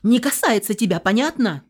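high, loud angry shout; furious yelling. A narrator's reading. Heroine confronting Nikolai, loud angry shout. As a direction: stand up and yell him down. She confronts him standing up.

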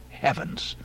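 breathless whisper of astonishment; awed whisper. Acted. Ishmael seeing Queequeg inside, awed whisper. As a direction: gasp it in wonder.

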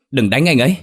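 high, loud plea to stop; acted alarmed shout, pitched well up; urgent cry. A narrator's reading. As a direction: cry out to hold off an attacker. Lover rushes in to stop beating.

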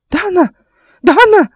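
high, loud sputtering yell; furious yell. A narrator's reading. Uncle losing patience with his niece, yelling. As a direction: shout at her, choking on rage. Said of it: "завопил дядя".

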